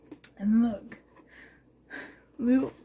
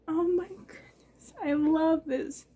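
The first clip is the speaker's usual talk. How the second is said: choked up; 3 semitones higher, 4 dB quieter than usual. Real, not acted. Moved by a friend's gifts.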